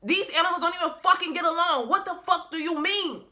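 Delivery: high, pleading complaint to God; exasperated Noah. Retold or imitated. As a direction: whine up to God about the animals.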